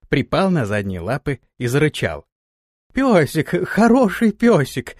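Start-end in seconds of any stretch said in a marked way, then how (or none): 2.9-4.9 put-on high, slow baby talk to a dog; cooing. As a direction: coo sweetly to calm the dog. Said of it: "засюсюкал Антон".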